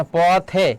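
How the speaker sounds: পথে sounded out apart, ending in a clear "e"; close-e demonstration. Shown as a demonstration. Teacher showing the vowel stays unchanged, close-e demonstration. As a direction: keep a pure close "e" at the end of পথে. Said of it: "এখানে এ উচ্চারণ থাকছে".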